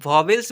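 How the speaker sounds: वावेल्स ending in an "e" sound, "vels"; wrong "-vels" in वावेल्स. Shown as a demonstration. Teacher warning against the mistake, वावेल्स with "-vels". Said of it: "बिल्कुल गलत है".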